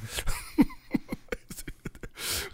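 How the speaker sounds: high, breathy burst of laughter; big laugh. Real, not acted. Host laughing at people who live in Minnesota.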